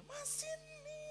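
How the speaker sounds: very high, thin, softened call; imitated calling out. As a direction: call over in a mock falsetto. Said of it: "Saya panggil".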